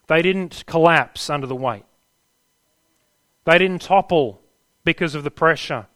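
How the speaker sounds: loud, emphatic proclamation; preaching at full force. Real, not acted. Preacher to struggling believers, loud and emphatic. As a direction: drive each phrase home.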